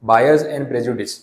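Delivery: slow, deliberate reading of the slide; unhurried dictation pace. Shown as a demonstration. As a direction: read it word by word for notes. Reads heading slowly.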